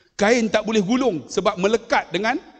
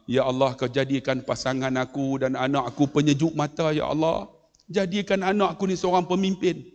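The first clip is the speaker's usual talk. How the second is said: low, earnest plea to God; praying father; 4 semitones lower than usual. Retold or imitated. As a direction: pray gently for your child. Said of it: "dia doa".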